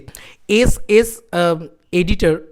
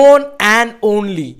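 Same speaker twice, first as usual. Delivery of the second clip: very slow emphatic; 6 dB louder, much slower than usual. Real, not acted. Boasting about the film's record.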